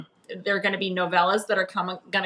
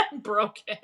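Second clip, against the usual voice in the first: laughing; 2 semitones higher, 4 dB quieter than usual. Real, not acted. Joking about podcast habit.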